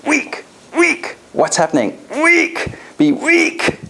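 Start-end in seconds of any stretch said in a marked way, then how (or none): 0.1-1.2 strong tonality. Shown as a demonstration. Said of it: "Strong tonality". 2.2-3.8 strong tonality. Shown as a demonstration. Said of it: "Strong tonality".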